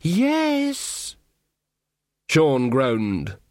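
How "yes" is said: slow, sneering elf voice; mocking elf. Elf taunting Magrat in the dark, slow and sneering. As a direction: taunt her lazily, savouring it.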